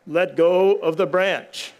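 slow, steady instruction from above; calm divine command. Retold or imitated. God tells the man to let go, slow and calm. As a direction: say it slowly and plainly, like God. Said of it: "And the voice says".

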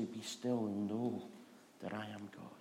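still and quiet. Retold or imitated. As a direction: speak it like God's whisper. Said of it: "being still and quiet".

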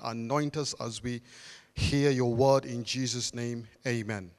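opening prayer before the sermon, earnest and swelling. Acted. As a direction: pray it aloud over the congregation. Opens with a prayer.

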